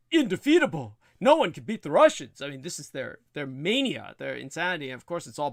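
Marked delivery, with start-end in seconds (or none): 0.1-2.4 high-pitched mocking proclamation of awe. Mimicking Americans dazzled by the Russian military, mock-awed proclamation. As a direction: exaggerate the reverence, pitched well up.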